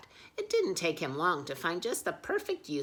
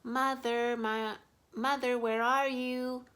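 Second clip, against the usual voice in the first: calling out; 10 semitones higher, 7 dB louder than usual. Acted. Little bear calls for his lost mother, pleading. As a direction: call out into the empty forest. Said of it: "called the little white bear".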